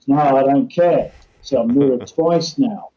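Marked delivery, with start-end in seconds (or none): 0.1-1.1 "care" falls hard and a touch louder in "No, I don't care"; mock defiant punter. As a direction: slam "care" down, flat refusal. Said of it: "might come back and goes".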